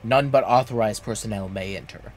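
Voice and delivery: lightly voiced creepy guy in black armor; creepy guard voice. Guard at Zemael Darkhold warns a visitor, mildly creepy. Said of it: "That voice hurt my throat".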